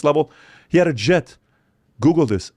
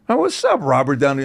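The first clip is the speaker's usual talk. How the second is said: excited greeting; 2 semitones higher than usual. Retold or imitated.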